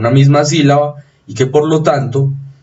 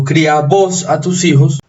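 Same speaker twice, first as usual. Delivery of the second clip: "cría" as criá, raised in pitch, accent on the A; stress on final A; 4 semitones higher than usual. Shown as a demonstration. Teacher illustrates voseo for the class, stress on the final A of "cría". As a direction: voseo "cría", weight on its last vowel. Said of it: "tiene acento acá, en la abierta".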